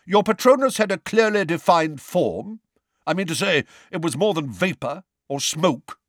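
high, booming cross-examiner. A narrator's reading. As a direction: press the witness in a booming voice. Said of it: "in a booming voice".

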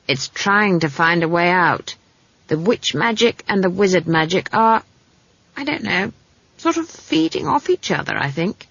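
a hint of granny working it out; lightly voiced musing old witch. Granny explains the clashing magic, lightly musing.

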